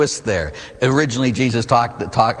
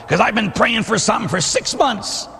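frustrated parishioner; 9 semitones higher than usual. Retold or imitated. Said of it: "come up to me sometimes and say".

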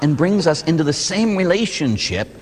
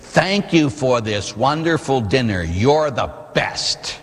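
slow and sweet; much slower than usual. Retold or imitated. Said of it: "we look at them and say".

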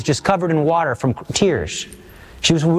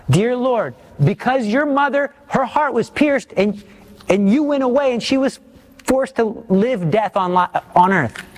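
earnest plea, pitched up high at first, then sinking; pleading prayer; 5 semitones higher than usual. Acted. Preacher voicing a prayer to Jesus for help, pleading. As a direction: plead with the Lord as you pray. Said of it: "Please, I'm begging you".

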